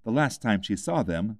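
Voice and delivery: plain reading voice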